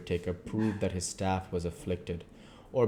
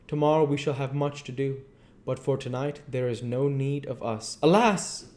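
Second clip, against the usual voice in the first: higher voiced, earnest foreign professor; foreign old professor; 7 semitones higher, 5 dB louder than usual. Professor explains to his colleague why he checks papers, higher and earnest. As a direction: speak as the learned foreigner, insistent. Professor bids friend rest.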